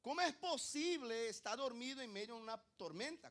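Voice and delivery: acted bafflement, high and forceful; incredulous question. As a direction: press the question on the congregation. Repeats incredulous question to congregation.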